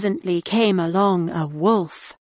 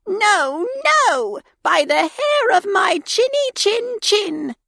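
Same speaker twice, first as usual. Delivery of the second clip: high defiant piglet; little pig voice; 13 semitones higher than usual. A narrator's reading. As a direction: refuse in a high squeaky voice. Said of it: "pig answers wolf".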